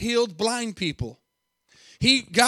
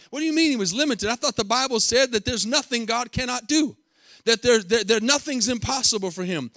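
baffled objection; 3 semitones higher than usual. Acted. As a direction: voice a thrown listener's mock objection. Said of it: "might throw some of y'all for a loop".

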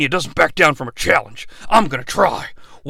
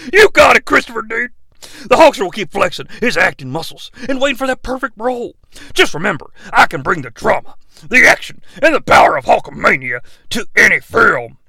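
Hulk Hogan; 4 semitones higher, faster than usual. Acted. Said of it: "Hulk Hogan".

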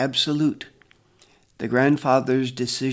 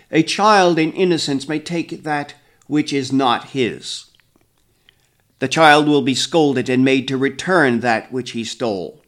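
terror-inducing voice; 9 dB louder than usual. A narrator's reading. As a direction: proclaim it to strike terror. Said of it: "In the same terror-inducing voice".

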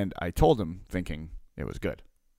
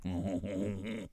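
mock stifled fuming noise; fuming hum; 9 dB quieter than usual. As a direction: hum through bottled-up irritation. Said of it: "you're just fuming".

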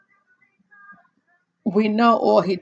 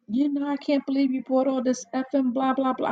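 mimicking the son; 5 semitones higher, faster than usual. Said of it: "I'm like".

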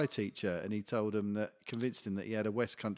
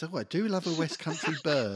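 laughing teacher quote; 4 semitones higher, 4 dB louder than usual. Retold or imitated. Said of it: "the teacher goes".

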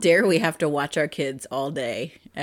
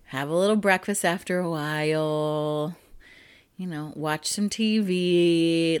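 sleepy slow morning; 2 semitones lower, 3 dB quieter than usual. Retold or imitated. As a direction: ease into the day lazily. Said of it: "I'm like".

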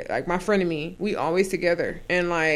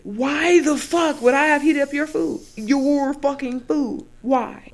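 exasperated rant; 7 semitones higher, 5 dB louder, slower than usual. Retold or imitated. Ranting about heating food.

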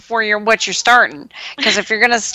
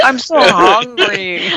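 slow, high whiny caterpillar voice; rubbery high squeaky toy; 6 semitones higher, much slower than usual. Retold or imitated. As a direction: drag it out, high and hungry. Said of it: "And then he goes".

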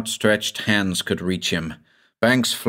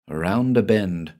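plain reading voice

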